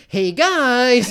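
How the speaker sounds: imitating a pest hailing people; mock eager call. Eric calling after the two men.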